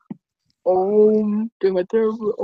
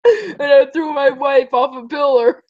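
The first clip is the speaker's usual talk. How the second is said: laughing in character; 2 semitones higher than usual. Pretend. Laughing in the Shining Armor voice.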